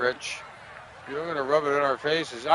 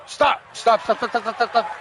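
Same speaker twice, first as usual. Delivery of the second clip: higher, pleading yells at the ball; yelling stop; 6 semitones higher than usual. Real, not acted. Gamer yelling at his rolling ball, pleading shouts.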